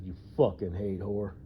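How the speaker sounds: calm disgusted insult; flat contempt; even, disgusted jab; matter-of-fact disgust. Shown as a demonstration. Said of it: "just like that".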